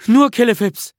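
high, loud boy's attempt; loud recital. A narrator's reading. Bertil repeats Nisse's instruction word for word, loud recital.

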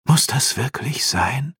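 slow, high villain's question; murmuring Shadow King. A narrator's reading. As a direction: ask it as a put-upon dark king. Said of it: "raunte der Schattenkönig".

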